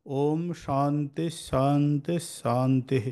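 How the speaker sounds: slow, drawn-out mantra recitation; Sanskrit prayer recitation. Shown as a demonstration. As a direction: recite the prayer slowly, stretching the long syllables. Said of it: "নিজের জন্য প্রার্থনা করছি". (ধীরে টেনে টেনে মন্ত্রপাঠ)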